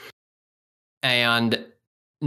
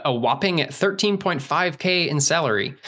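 mock-impressed, pitched higher; sarcastically awed by a modest sum; sarcastic; 5 semitones higher than usual. Real, not acted. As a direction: play up the whopping figure with raised pitch. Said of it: "I say whopping with sarcasm".

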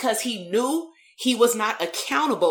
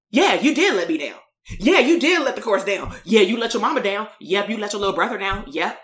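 blunt, emphatic retold confirmation; no cushioning. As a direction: lay out each failing without softening it. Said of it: "I ain't cushioning shit".

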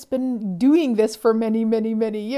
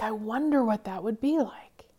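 soft unvoiced curious musing; whispered wonder; 6 dB quieter than usual. Shown as a demonstration. Coach modelling the wonder question, whispered. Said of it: "And we just wonder".

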